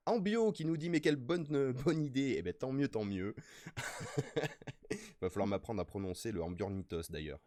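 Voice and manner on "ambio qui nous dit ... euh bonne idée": upbeat chat reading. Real, not acted. Reading chat message aloud.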